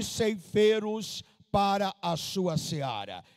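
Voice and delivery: slow, weighty reading of the verses; solemn scripture reading. Acted. Pastor reading Matthew to the church, slow and solemn. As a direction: let each phrase of scripture land, slowly.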